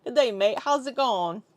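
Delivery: lighter put-on Aussie accent; Australian accent attempt. Shown as a demonstration. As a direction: ease into a mild Australian accent. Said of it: "get into the accent".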